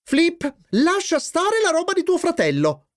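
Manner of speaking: very high-pitched motherly order; scolding. Acted. Mother ordering Flip off his brother's things, scolding. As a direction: call him off in a high voice.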